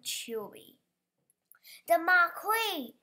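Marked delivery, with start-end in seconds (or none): 1.9-2.9 loud, slow yell of alarm. A narrator's reading. Event manager yelling about the marquee, loud alarm. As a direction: shout it across the grounds. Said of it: "yelled the event manager".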